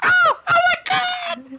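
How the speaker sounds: very high, shrieking, agonized scream. Voicing what another character hears from a tiny being under a boot, screaming in agony. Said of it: "she's screaming in agony".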